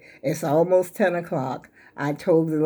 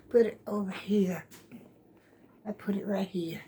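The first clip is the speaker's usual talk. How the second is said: whispering; 7 dB quieter than usual. Real, not acted. Moving blanket, muttering aside.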